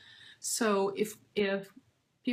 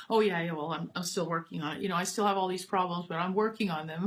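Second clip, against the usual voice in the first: self-deprecating adult student; 3 semitones lower, faster than usual. Retold or imitated. Adult student hurrying to deflect the teacher's praise, lower. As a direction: lower and fast, brushing off the praise. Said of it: "They'll say".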